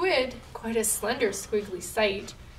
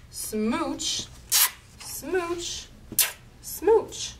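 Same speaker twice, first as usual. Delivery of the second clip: climbing smooches; 7 semitones higher, much slower than usual. Acted. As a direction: climb the ladder of kisses. Rising smooches.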